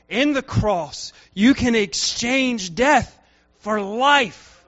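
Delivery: rising, insistent sermon voice; preaching. Acted. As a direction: drive the message home to the congregation. Preaches the gospel.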